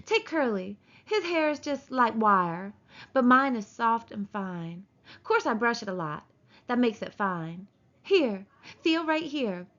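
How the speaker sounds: lightly voiced vain woman showing off; a hint of preening, inviting chat; self-pleased wife. Wife inviting him to feel her hair, mildly complacent. Narrator voicing Curly's wife.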